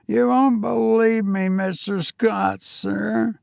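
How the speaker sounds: put-on a nervous young servant answering his master; young Cockney servant. Thomas hesitant.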